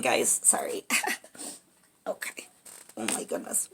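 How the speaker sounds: very soft, half-whispered aside; hushed, overcome. Real, not acted. Card reader apologizing to viewers for a pause, hushed. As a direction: drop almost to a whisper as you collect yourself.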